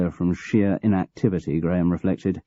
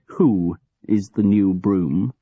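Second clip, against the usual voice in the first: thickly; slower than usual. Acted. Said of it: "asked Graham thickly".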